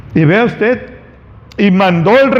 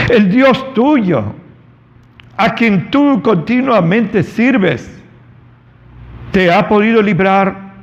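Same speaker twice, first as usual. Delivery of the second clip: sad king's call; slower than usual. Acted. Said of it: "con voz triste".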